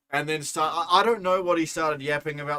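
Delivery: plain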